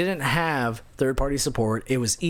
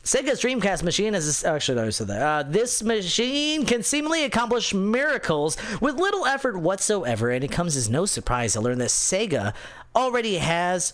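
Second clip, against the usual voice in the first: nerd voice; 2 semitones higher than usual. Acted. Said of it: "I'm gonna do this in my nerd voice".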